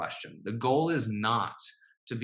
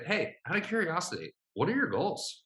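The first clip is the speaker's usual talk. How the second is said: light, lilting curious question, higher; curious, gentle ask; 7 semitones higher than usual. Shown as a demonstration. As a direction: ease into it with friendly curiosity. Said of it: "adding that flavor of curiosity".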